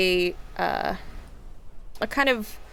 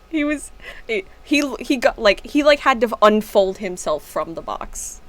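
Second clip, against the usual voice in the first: amused explaining; 3 semitones higher, 5 dB louder than usual. Real, not acted. Amused explanation right after laughing.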